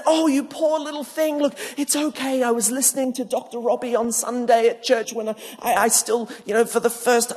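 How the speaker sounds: put-on a kindly adult consoling a scared girl; well-meaning comfort. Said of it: "in your well-meaning kindness".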